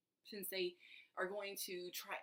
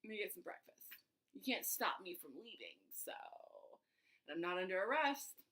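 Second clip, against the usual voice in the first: breezy defiance; 3 semitones higher, 3 dB louder than usual. Retold or imitated. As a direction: act bright and unbothered while leaving. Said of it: "so I'm like".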